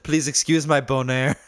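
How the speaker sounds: put-on "Bonaire" said like "boner" in a jokey French accent; mock French accent. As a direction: play a hammed-up Frenchman apologising in a French accent. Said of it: "like a French accent saying boner".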